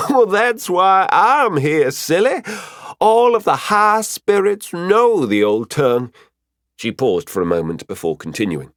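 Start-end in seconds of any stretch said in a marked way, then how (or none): 0.1-6.1 high, singsong teasing reassurance; playful high-pitched mentor; amused teasing. Acted. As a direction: tease fondly, way up high and louder. Mafira teases after laughing.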